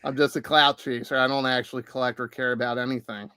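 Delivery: low, quick, deadpan read; monotone. Shown as a demonstration. Host reads out a jab at himself, quick deadpan monotone. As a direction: rattle it off without any inflection. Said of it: "in a very monotone voice".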